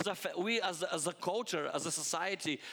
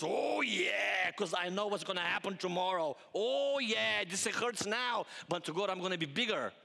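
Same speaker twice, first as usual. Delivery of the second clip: gym yell; 3 semitones higher than usual. Retold or imitated. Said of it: "and he goes".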